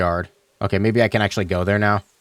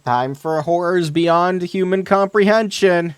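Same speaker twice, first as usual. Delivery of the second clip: slow, higher, dramatic; mock ominous announcement; 9 semitones higher, slower than usual. Real, not acted. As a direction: ham up a spooky intro.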